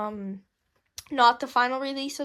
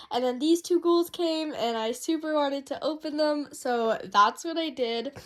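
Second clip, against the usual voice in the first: hoarse voice from a cold; croaky, under-the-weather voice; sick voice. Real, not acted. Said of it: "as you can hear, I'm kind of sick right now".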